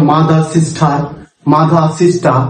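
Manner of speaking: "মাদার, সিস্টার" each ending in an open ah; British silent r. Shown as a demonstration. Teacher drills British examples for learners, silent final r. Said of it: "এখানে আমরা আ sound দিচ্ছি".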